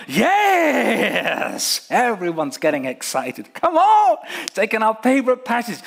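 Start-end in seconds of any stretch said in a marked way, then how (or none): 3.5-4.2 high, loud hyped-up cheer; crowd cheer. Retold or imitated. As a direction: egg the speaker on.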